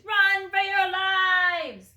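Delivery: high, loud, slow panic cry; panicked scream. A narrator's reading. Terrified mice flee the monster dog, loud panicked scream. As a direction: shriek it while running away. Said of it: "screamed the soldiers".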